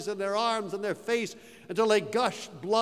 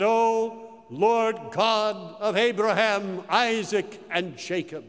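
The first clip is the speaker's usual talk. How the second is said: solemn prayer; slower than usual. Acted. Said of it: "and he said".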